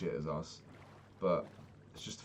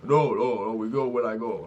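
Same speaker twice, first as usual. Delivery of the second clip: loud, higher, firm refusal from the bus driver; mock stubborn driver; 3 semitones higher, 10 dB louder than usual. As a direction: bark it out like a driver who won't budge.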